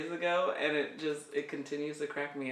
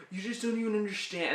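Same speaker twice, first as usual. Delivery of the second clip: quick, higher mock-teen complaint; teenager's voice; 4 semitones higher, faster than usual. Teen complaining parents don't get it, mildly mocked teen voice. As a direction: lightly imitate an exasperated teen. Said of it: "their voices are just so funny".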